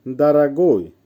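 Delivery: teacher modelling দারাগোই; careful pronunciation demo. Shown as a demonstration. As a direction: say দারাগোই clearly as দা-রা-গোই. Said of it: "উচ্চারণ হবে". (দারাগোই-এর স্পষ্ট উচ্চারণ)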